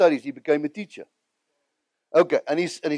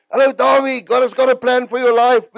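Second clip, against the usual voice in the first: quoting Reinhard; 7 semitones higher, 6 dB louder than usual. Retold or imitated. Reinhard calling on the phone.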